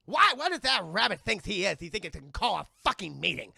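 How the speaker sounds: pissed-off cartoon indignation, loud at first; acted annoyance, easing after a loud start; Daffy Duck. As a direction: rant in offended disbelief. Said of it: "he's just pissed".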